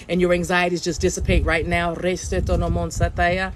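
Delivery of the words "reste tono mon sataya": slow chanted made-up syllables; light language. Acted. Psychic speaking light language to clear space, slow chant. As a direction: intone the syllables slowly like a chant. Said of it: "speaking in my light language".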